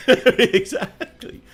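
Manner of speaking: high, loud laugh through the word Exactly; bursting into laughter. Real, not acted. Laughing after partner's joke.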